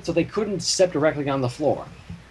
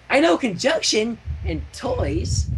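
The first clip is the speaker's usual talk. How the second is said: Pinkie answer; 5 semitones higher, slower than usual. Acted. Pinkie proudly naming words.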